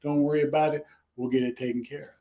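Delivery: mild, retold reassurance; very kindly. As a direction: imitate a kind host putting a guest at ease. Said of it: "very kindly, and said".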